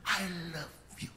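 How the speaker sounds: slow, drawn-out sweet talk; loving husband. Acted. Husband greets wife after morning prayer, slow and loving. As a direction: linger tenderly on each word.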